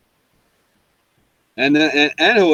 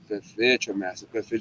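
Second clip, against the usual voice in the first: mocking imitation; 6 semitones lower, 8 dB quieter than usual. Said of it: "he was bugging me on the whole trip".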